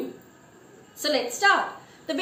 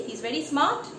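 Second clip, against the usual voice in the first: questioning; 3 dB quieter than usual. Shown as a demonstration. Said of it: "No, he is quick-witted".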